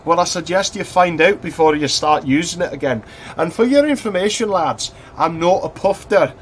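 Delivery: high, loud mock teacher telling boys off; a hammed-up headmaster lecturing the boys; stern deputy head. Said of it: "It's like".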